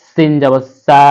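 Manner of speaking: "সা" with the vowel held a beat; one-alif lengthening. Shown as a demonstration. Teacher spells sin with zabar, lengthened "সা". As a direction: draw out the final "সা". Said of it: "এক আলিফ টেনে পড়তে হবে".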